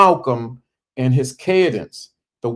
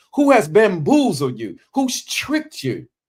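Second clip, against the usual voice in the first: rhythmic emphatic orator cadence, each key word punched hard; 4 semitones higher than usual. Showing listeners how to master their delivery, do a Malcolm impression with emphasis on certain words. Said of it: "It's Malcolm all the way".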